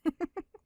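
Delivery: short light chuckle at his own joke; a quick playful laugh before I'm only kidding; teasing laugh. Acted.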